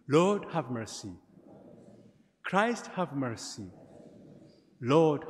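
measured, chanted-like prayer cadence; liturgical prayer. Acted. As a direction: pray it out to the congregation. Leads the Gloria.

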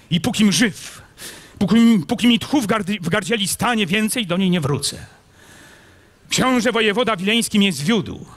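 impassioned knight. A narrator's reading. Kmicic explaining why he left, fervent and high. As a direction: swear it with rising heat.

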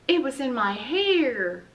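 drawn-out complaint from the diner; Rita the waitress. Acted. Rita the waitress telling the children, slow and high.

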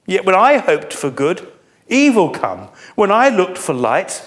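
a broken man crying for help; lament. Acted. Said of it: "can you hear his lament?".

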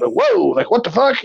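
put-on shocked kids. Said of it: "And they, they".

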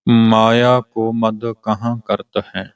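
slow measured line resting on ਹੈ; pause after ਹੈ. Shown as a demonstration. Teacher showing the pause, slow line halting after ਹੈ. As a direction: recite slowly and stop after ਹੈ. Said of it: "ਇੱਥੇ ਵਿਸ਼ਰਾਮ".

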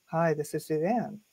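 low, soft hello without a smile; unsmiling greeting. Shown as a demonstration. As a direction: take all the smile out of the greeting. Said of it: "I'm just gonna talk like this".

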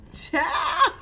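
laughing. Real, not acted. Laughing exclamation.

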